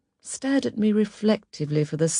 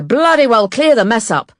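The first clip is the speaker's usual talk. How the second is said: loud, higher-pitched angry bark; barked order; 6 semitones higher, 8 dB louder than usual. Retold or imitated. Manager to clumsy tea lady after the crash, barking. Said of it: "who barked at me".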